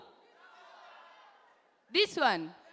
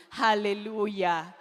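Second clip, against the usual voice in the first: hallelujah shout; 3 semitones lower than usual. Acted. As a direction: shout it like in church. Praising God shout.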